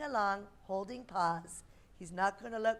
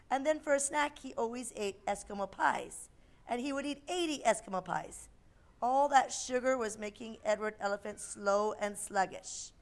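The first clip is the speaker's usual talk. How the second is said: put-on lively storybook voice for kids; reading to children. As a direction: read a picture book aloud.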